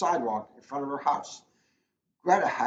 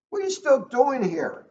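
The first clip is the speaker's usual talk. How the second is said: surprised teacher; 11 semitones higher, 7 dB louder than usual. Acted. Teacher finds Greta still at school.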